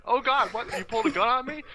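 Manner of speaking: high, shocked squeal of alarm; mock panic.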